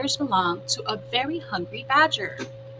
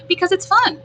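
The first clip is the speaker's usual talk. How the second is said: opossum voice; 9 semitones higher, 7 dB louder than usual. Acted.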